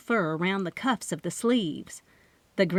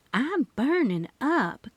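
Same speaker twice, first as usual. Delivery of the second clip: panting; 6 semitones higher than usual. A narrator's reading. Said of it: "Kami panted".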